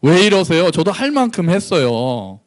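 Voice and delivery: mildly exasperated, slowing at the end; aggrieved protest. Acted. Israel talking back to God, mildly aggrieved. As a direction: complain that you have done your share. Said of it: "이렇게 얘기하고 있는 거예요".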